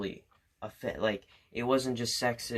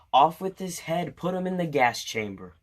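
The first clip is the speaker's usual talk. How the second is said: raised, higher-pitched exaggerated verdict; mock outraged decree; 5 semitones higher, 5 dB louder than usual. Teacher punishing a boy for whispering in class, mock outrage. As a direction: order it like an over-the-top tyrant.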